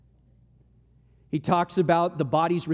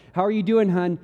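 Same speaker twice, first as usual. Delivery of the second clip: sweet question to wife; 3 semitones higher, 5 dB louder than usual. Retold or imitated. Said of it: "I look at my wife like".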